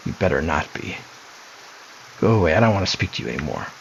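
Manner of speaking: lightly voiced mocking sister, taunting; a sly sister toying with her brother; creepy sister.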